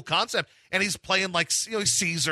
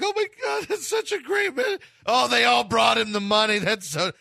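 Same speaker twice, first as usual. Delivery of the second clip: mock teary gushing; 2 semitones higher than usual. Man recalling crying at It's a Wonderful Life, mock teary gush. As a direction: act out welling up at the ending. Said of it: "I'm just sobbing over this movie".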